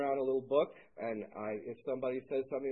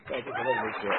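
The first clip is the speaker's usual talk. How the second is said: choked up; 2 semitones lower, 5 dB louder, faster than usual. Real, not acted. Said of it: "Sorry for the emotional outburst".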